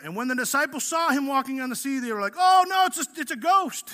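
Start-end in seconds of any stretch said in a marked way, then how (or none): 2.4-3.9 high, loud cry of alarm; mock panic. Preacher acting out disciples who see Jesus on the sea, mock panic. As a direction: play startled men yelling in fright. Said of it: "They were already freaking out".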